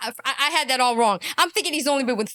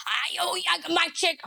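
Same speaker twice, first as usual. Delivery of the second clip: mocking imitation. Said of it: "somebody talking about you like this".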